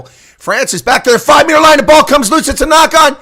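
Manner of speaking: high, loud call near the try line; excited play-by-play. Real, not acted. Commentator calling France pinned on their line, high and loud. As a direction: shout it like the try is coming.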